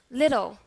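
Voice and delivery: "Little" with a tapped D-like T; American flap T. Shown as a demonstration. Teacher repeats for class, American flap T. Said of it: "how about American English".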